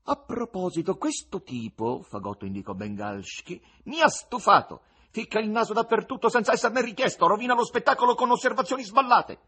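high, loud scornful tenor; annoyed Fagotto. Acted. Fagotto complaining to the crowd, loud scornful tenor. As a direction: sneer at the presenter.

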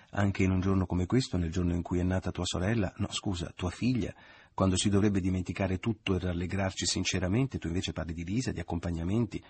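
a hint of mocking his mother's scolding; lightly ape her reproachful tone; parodying mother. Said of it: "esclamò parodiando le parole che Maria Grazia".

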